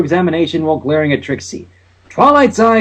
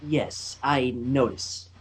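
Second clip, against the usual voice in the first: awkward; 5 semitones lower, 13 dB quieter, slower than usual. A narrator's reading. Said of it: "Twilight said awkwardly".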